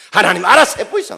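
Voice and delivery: loud, high Gyeongsang "알아서 해보이소", falling shrug at the end; 경상도 사투리로 "알아서 해보이소"라고 체념하듯; Gyeongsang dialect resignation. Retold or imitated. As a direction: hand it all over to God in dialect. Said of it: "힘 빠지면 뭡니까".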